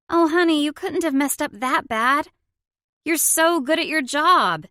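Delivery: high, loud, gushing reassurance; consoling. A narrator's reading. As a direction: reassure her emphatically, pitched well up. Consoling her upset sister-in-law.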